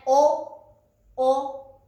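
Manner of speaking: お said as a pure O vowel, no W; plain vowel お, spoken as a separate demo; silent W. Shown as a demonstration. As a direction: model お short and clear, W left silent. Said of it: "このWは発音しません".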